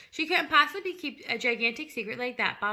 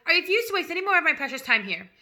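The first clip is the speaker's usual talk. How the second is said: furious roar, much louder and higher; 6 semitones higher, 11 dB louder than usual. A narrator's reading. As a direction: bellow it at the whole class. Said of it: "roared the Trunchbull".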